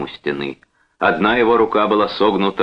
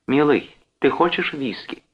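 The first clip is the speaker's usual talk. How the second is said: higher, coaxing question; conciliatory; 9 semitones higher than usual. A narrator's reading. Joan offers her husband a drink, conciliatory. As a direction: make a peace offering to a husband. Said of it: "спросила примирительно".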